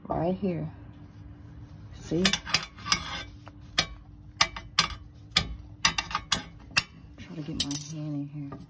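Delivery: talking while lying under a car; strained, reaching up under the car. Real, not acted. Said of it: "And I'm under the car".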